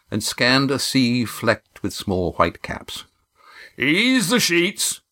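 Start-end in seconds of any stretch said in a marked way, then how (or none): 3.8-5.0 big slow booming call from the helm; booming skipper. A narrator's reading. Skipper booming an order to his crew. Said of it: "boomed the skipper".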